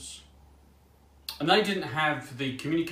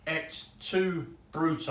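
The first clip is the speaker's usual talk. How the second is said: higher-pitched attempt at a Latin accent; mock-classical Latin accent, pitched up; 4 semitones higher, slower than usual. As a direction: quote it in your best Latin accent. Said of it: "read in my best Latin accent".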